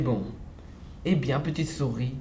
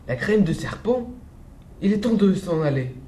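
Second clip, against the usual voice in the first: a snake startled into fleeing; alarmed snake; 4 semitones higher than usual. Acted. The snake panics at hearing it's the dish, alarmed.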